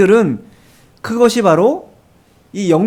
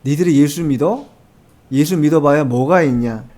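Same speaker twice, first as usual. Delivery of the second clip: lower, lightly sneering unbeliever; a hint of a jeering scoffer; mock scoffing; 5 semitones lower than usual. Scoffer taunting believers, lightly mocking sneer. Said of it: "이렇게 조롱한다라는 거예요".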